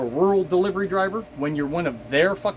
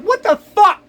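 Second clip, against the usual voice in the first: high, louder incredulous yelp with a laugh; baffled outburst; 13 semitones higher, 8 dB louder than usual. Retold or imitated. Driver reacts to nonsense route symbols, high laughing disbelief. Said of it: "It's like".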